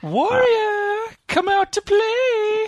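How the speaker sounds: high, slow eerie call; taunting villain voice. Acted. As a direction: call out like a sing-song taunt. Enemy taunting from the dark.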